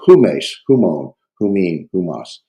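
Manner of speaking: "who Mace, who Moan, who Mean, who Moss" each opened with a breathed H; H sound in front. Shown as a demonstration. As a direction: start each "who" on an audible H. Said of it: "it has that H sound in front".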